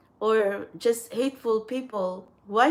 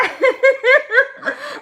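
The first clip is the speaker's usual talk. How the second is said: big laugh; 13 semitones higher, 7 dB louder than usual. Real, not acted. Cracking up at own story.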